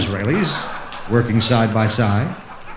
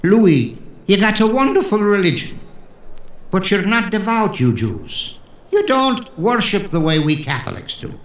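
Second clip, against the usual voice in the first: mock Catholic guest; 8 semitones higher than usual. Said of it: "he remarked".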